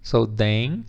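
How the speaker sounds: DANGEROUS broken into slow syllables, dain-juh-rus. Shown as a demonstration. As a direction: spell out the sounds of DANGEROUS one at a time, pausing between. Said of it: "The symbols really help you". (dangerous pronunciado sílaba por sílaba, devagar)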